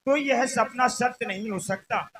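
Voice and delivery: loud, projected stage speech; stage declamation. Acted. Ram reassures Janaki about her dream, declaimed loudly. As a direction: declaim it to reach the back row.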